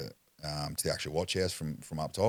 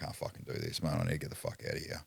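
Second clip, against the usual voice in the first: muttered frustration; 6 dB quieter, faster than usual. Retold or imitated. Frustrated stuck at mum's house.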